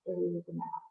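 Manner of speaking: measured meditation guide with long pauses; guided meditation. Acted. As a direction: guide listeners through each breath, leaving space between phrases.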